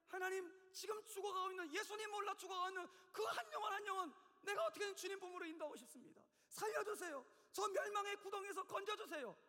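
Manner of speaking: high, loud, driving plea; impassioned intercession. Acted. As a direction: cry out to God for a dying soul. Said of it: "이게 목자의 심정이고". (애타게 부르짖는 중보기도)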